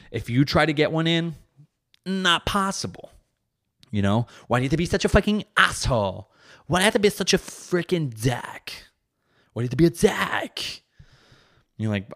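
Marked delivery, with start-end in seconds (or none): 0.1-3.1 high, stretched-out teasing; mock warning. Comic warning husbands against jabbing back, mock warning. Mocking impossibility of winning a jab. 4.5-10.8 high-pitched mock scolding voice; scolding partner. Partner scolding him for getting one in, mock scolding.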